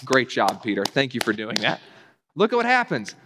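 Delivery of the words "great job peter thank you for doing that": lightly sarcastic pat on the back; mock praise. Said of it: "And Jesus doesn't go".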